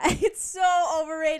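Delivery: loud, drawn-out so; emphatic. Real, not acted. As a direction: stretch the word so. Laughing emphatic agreement.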